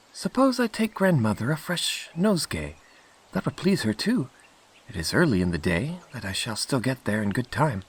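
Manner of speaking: put-on light girlish voice, starting high; Little Red Cap musing. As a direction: think it over as a trusting little girl. Red Cap thinks aloud.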